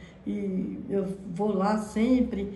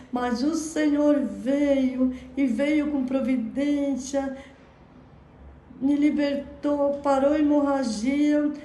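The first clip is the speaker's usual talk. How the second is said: rising fervour; 3 semitones higher than usual. Real, not acted. Testifying to healing, rising fervour.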